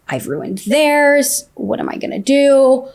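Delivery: high, drawn-out mock wail; retold despair. Lying in bed after the affair came out, retold despair. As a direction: stretch it upward in mild desperation.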